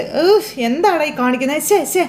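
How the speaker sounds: high, disgusted, disdainful scoff.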